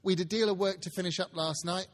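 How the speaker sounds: a daughter announcing herself; girl's voice. Acted. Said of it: "replied the girl".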